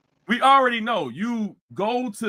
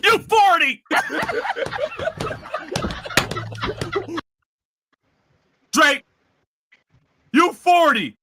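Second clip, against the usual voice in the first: teasing; 10 semitones higher, slower than usual. Real, not acted. Mocking a rapper's age, laughing.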